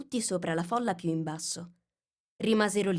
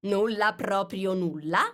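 insisting king; 4 dB louder, slower than usual. Acted. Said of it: "insistette il re".

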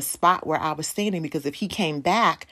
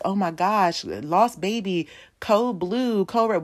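lightly acted alarm, pitched up; mock alarm; 4 semitones higher, slower than usual. Mall staff react to a lost baby, mock alarm. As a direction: call out codes like a worried responder.

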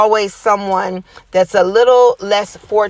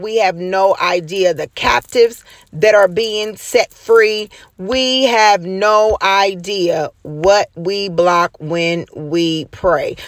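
preaching; slower than usual. Acted. Preaching build-up.

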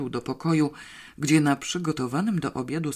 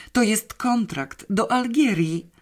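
slow, higher, louder words full of wonder; awed reveal; 8 semitones higher, 4 dB louder than usual. A narrator's reading. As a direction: unveil it like a treasure. Girl reveals thrilling news. (Janeczka z przejęciem, wolno i wyżej: „To jest kontrakt”)

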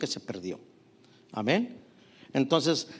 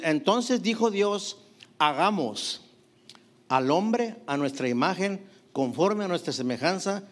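scripture reading. Acted. Preacher reads Genesis aloud.

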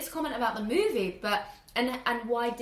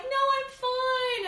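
calm uncle; much slower than usual. Retold or imitated. Uncle answering family.

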